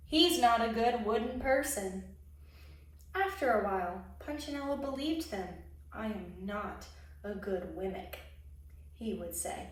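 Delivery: lively storybook narration; expressive picture-book reading; reading to children. A narrator's reading. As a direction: read it like a children's story time. Reads a picture book aloud.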